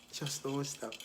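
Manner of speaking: soft laughing echo of the advice; laughing repeat. Shown as a demonstration. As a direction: repeat it softly, chuckling.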